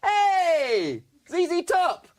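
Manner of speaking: cheeky greeting. Retold or imitated. Comic cheekily hails the bearded band member, loud and high. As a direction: greet him like an old pal to wind him up. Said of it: "and I went".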